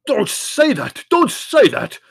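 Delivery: Spiro's booming roar. A narrator's reading. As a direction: roar it out, repeating. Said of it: "Spiro would roar".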